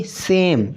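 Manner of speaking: सेम said slowly as one syllable; read out as one syllable. Shown as a demonstration. Teacher reads option one to count syllables, sounded out. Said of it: "पढ़िए एक number की".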